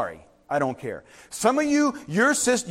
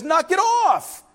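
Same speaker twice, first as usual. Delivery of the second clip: higher, slow, commanding rebuke; voice of God; 11 semitones higher, 4 dB louder, much slower than usual. Acted. Pastor voicing God telling people to stop, high and slow. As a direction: boom it out as God scolding. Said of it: "God says".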